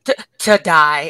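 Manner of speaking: a hint of a gloating Goblin, drawn out; Goblin quote. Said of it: "Goblin's just like".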